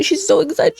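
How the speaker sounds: high, excited emphasis. Real, not acted. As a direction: lift the pitch with excitement. Narrator mimics excitement.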